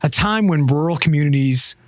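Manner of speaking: even, measured horror-story reading; story narration. Acted. Reading a creepy legend aloud on the podcast, story narration. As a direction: tell the legend steadily to your friends.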